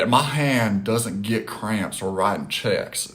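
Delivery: slow, lightly voiced Jerry Jones in a Southern drawl; a hint of a smug team owner, drawn out; lightly mocking Jones bragging about his cheques; quoting Jones. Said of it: "his quote about his hand".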